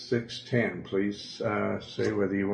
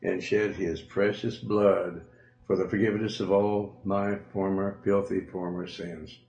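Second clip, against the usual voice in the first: prayer. Acted. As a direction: lead the listener through the prayer. Preacher leads a sinner's prayer.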